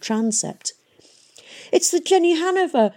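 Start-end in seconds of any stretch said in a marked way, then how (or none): 1.7-2.9 high, loud excited shout. A narrator's reading. Hester shouting as she spots the airship. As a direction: call out the ship's name. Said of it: "shouted Hester".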